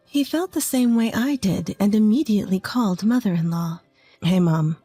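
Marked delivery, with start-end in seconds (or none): 4.2-4.8 husband's voice. Acted. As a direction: play the husband gently telling his mother. Husband's phone call to his mother.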